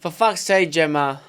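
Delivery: loud, fed-up for fuck's sake; exasperated swear. Acted. Doing his own catchphrase for a listener's message tone, loudly fed up. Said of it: "I can do the real one".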